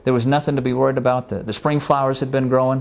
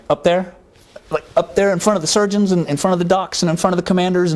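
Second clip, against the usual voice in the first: incredulous; 7 semitones higher than usual. Retold or imitated. Incredulous reply to God.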